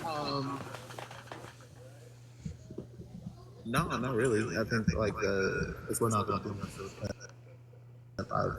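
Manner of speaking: muffled, as if covered. Real, not acted. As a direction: hand over mouth. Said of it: "you're really muffled".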